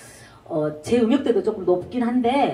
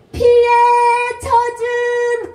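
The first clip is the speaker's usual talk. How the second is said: "피에" with 에 punched, "젖은" held high and slow; accent the 에 without dragging; stress on 에; 12 semitones higher, 7 dB louder, slower than usual. Shown as a demonstration. Teacher correcting students, accent not dragged. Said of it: "여기서 에를 강조".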